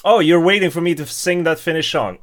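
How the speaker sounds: normal talking voice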